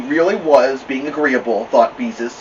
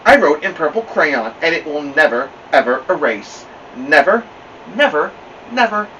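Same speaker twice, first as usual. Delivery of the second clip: pleased with herself; 4 semitones higher, 4 dB louder than usual. Acted. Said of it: "pleased with herself".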